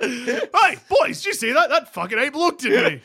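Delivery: mock outrage. Dusha outraged at the ape.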